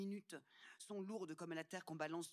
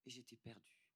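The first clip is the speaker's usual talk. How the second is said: lost; 6 semitones lower, 10 dB quieter than usual. Acted. Confession of feeling lost.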